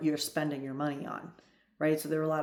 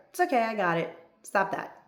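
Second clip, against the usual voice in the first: brushing off help; 4 semitones higher than usual. Shown as a demonstration. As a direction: fend off his help, hurried and insistent. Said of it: "See the difference?".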